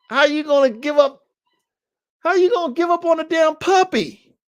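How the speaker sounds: high, loud exasperated cry; indignant outburst at giving up a puppy; outraged disbelief. Retold or imitated. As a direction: demand it in disbelief, voice climbing. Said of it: "this is me speaking to myself".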